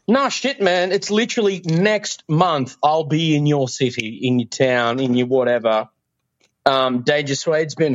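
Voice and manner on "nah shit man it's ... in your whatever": excited self-quote. Retold or imitated. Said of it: "I'm like".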